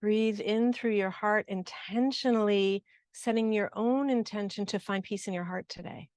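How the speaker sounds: unhurried guiding voice with long pauses; guided breathing practice. Real, not acted. Teacher guiding the group to breathe in through the heart, guided practice. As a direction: lead them gently through the breath.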